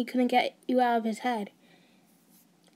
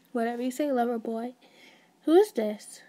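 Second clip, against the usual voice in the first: smirking. Acted. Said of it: "said with a smirk on his face".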